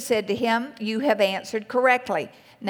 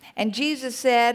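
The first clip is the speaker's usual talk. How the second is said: ordinary delivery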